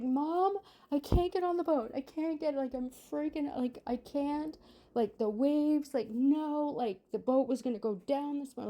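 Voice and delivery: high, rushed imitation of her own hysterical call; panicked crying call. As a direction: beg mom in a retold full meltdown.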